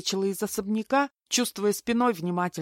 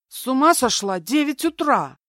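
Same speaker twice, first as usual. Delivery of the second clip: high, loud protest; indignant; 8 semitones higher, 10 dB louder than usual. A narrator's reading. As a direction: object with raised, outraged voice. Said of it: "возмутилась Бельская". (возмущённо)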